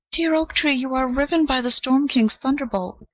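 high, anguished cry of grief. A narrator's reading. The ivy cries out in anguish to the struck oak. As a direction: cry out in pain for him. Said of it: "cried the ivy in anguish".

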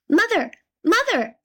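high, loud call for his mother; calling out loudly. A narrator's reading. Tom calls out to his mother from inside the cow, high loud cry. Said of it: "called out loudly".

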